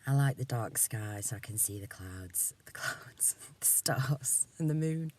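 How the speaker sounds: hushed, dreamy whisper. Real, not acted. Whispering to herself about the night sky, hushed. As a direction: breathe it like a secret.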